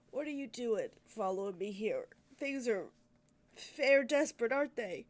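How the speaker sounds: Irish gentleman, lightly voiced; attempted Irish accent. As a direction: have a go at an Irish character voice. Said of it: "what voice am I giving this man?".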